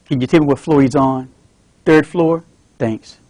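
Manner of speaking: easy, friendly small talk; polite son at desk. Acted. Son greets nurse.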